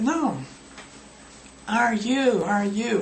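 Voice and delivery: lifted, teasing prompt; prompting correction. Shown as a demonstration. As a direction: nudge the student toward the right order. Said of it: "And you get".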